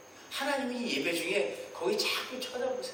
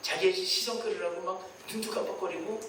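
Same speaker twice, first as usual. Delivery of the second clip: normal talking voice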